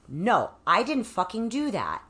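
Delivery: firm, emphatic refusal of blame; acted-out indignant insistence; defiant self-talk. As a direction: push the blame back where it belongs. Retells defiant self-talk against abuser.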